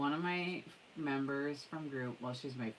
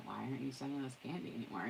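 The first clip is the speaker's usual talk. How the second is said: quick and softer, laughing through it; fast, amused retelling of a child's complaint; laughing quote; 5 dB quieter, much faster than usual. Retold or imitated. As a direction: repeat the kid's demand while laughing.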